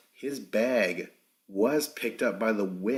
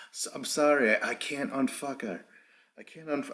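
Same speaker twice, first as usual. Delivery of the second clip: higher-pitched, badly faked British accent; attempted British accent; 5 semitones higher than usual. Host imitating Kyle's apology, in a botched British accent. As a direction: have a poor go at a British accent. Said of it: "I can't do a fucking British accent".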